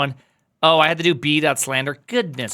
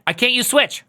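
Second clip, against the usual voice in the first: mock whine; 8 semitones higher than usual. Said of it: "I cannot use switch".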